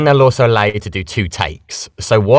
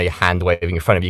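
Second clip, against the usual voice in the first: ordinary delivery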